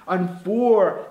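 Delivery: "Un for" with the weight on "for"; stress on FOR. Shown as a demonstration. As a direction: lean hard on "for" after a light "Un". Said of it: "a palavra com a força". ("Un for" com força no "for")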